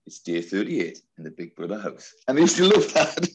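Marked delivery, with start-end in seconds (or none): 0.1-2.1 a slightly quieter Geordie announcer impression; Big Brother narrator. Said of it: "I used to always say for the kids".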